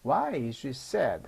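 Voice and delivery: slow question with feeling, falling at the end. Shown as a demonstration. Teacher repeats the question for learners, with feeling. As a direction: put emotion into "why", drop on "sad". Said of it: "감정을 넣어서 말해 봅니다".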